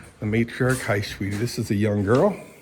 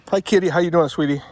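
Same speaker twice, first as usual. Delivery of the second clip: cooing at kitty; 5 semitones higher, 4 dB louder, faster than usual. Real, not acted. Greeting the cat in pet voice.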